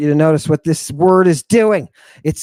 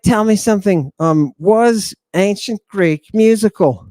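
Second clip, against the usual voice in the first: raised pitch, putting a pointed question; insistent questioning; 4 semitones higher than usual. Acted. Student quizzes a scholar about ancient Greek, insistent.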